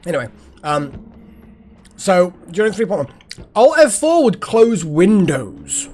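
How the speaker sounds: talking through a mouthful; mouth full. Real, not acted. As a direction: chew while telling the story. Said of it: "I'm gonna talk with my mouth full".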